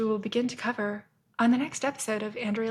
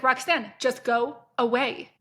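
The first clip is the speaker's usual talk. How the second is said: exasperated repeat. Retold or imitated. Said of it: "Then she comes back".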